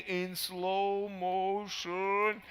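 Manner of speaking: words stretched out like slowed film; slow motion. Retold or imitated. Speaker replaying his jump in the air, slow motion. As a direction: drag each syllable out in slow motion. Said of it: "Everything went so slow, like slow motion".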